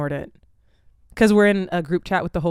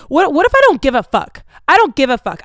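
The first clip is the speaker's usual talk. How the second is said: mock defiant bro; 6 semitones higher, 7 dB louder than usual. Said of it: "He says".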